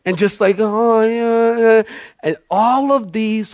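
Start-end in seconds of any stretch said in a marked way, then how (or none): 0.6-1.8 imitated wailing moan; half-hearted put-on whimper; mock crying. Showing people crying on the church carpet, mock wail. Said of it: "if you felt like crying or whatever".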